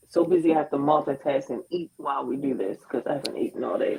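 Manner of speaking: talking with food in mouth; words round a mouthful of food; eating while talking. Real, not acted. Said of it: "excuse me for eating on camera".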